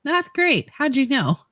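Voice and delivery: high, small retold answer; mock hungover reply. Hungover kid answering mom, mock sheepish.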